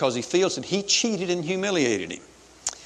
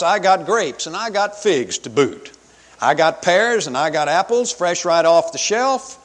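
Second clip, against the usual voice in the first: raised, punchy, rhyming sales patter; boastful Cain; 4 semitones higher, 6 dB louder than usual. Acted. Cain showing off his fruit to Abel, bragging. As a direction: brag like a cocky produce seller. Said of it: "this is the way it would have sounded to me".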